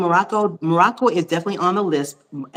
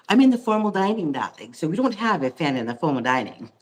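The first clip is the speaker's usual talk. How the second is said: lightly voiced Connecticut housewife, a hint only; playful hint of a society wife; 3 dB quieter than usual. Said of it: "sounding like a Connecticut housewife for real".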